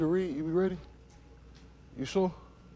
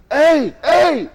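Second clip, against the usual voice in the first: imitating a scream; 11 semitones higher, 6 dB louder than usual. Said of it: "Why you screaming?".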